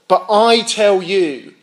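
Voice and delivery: slow emphatic declaration; authoritative pronouncement. Retold or imitated. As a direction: land the I with weight. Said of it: "when Jesus said".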